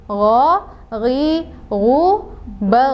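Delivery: gho held smoothly with no bounce; unbounced gho. Shown as a demonstration. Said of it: "kita ulang lagi".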